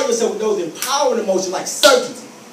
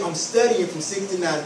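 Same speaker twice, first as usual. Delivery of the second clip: steady, no-nonsense refusal; firm and certain, a bit lower; 4 semitones lower, 5 dB quieter than usual. Shown as a demonstration. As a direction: hold the line calmly. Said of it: "I want you to really get firm".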